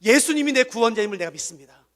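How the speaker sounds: loud, high declaration of faith; confession said aloud. Shown as a demonstration. Pastor leading the church's confession, loud and firm. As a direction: proclaim it boldly. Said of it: "성도들 앞에서 고백하세요".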